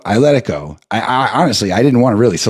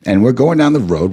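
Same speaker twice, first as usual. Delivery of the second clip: normal talking voice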